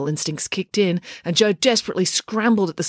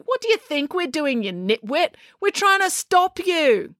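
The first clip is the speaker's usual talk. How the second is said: high, exasperated retort; high-pitched, sarcastic scolding; 9 semitones higher than usual. A narrator's reading. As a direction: spell it out to a nitwit. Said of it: "said April sarcastically".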